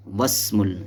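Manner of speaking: वस्मुल joined straight from w to s, no "i"; dropped hamzatul wasl. Shown as a demonstration. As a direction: run the वाव into the seen in वस्मुल. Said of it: "हमज़ा वस्ल गिर जाता है".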